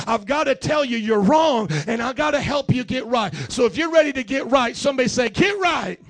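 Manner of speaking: rally the room to answer; rising preaching. Acted.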